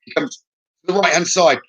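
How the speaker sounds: clarify each word of "right-hand side" slowly; slow clarifying restatement; slow and careful. Shown as a demonstration. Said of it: "not the right, not as you're facing".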